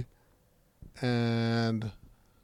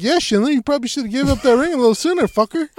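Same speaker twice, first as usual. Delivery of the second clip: mock scolding; 9 semitones higher, 5 dB louder, faster than usual. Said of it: "I was like".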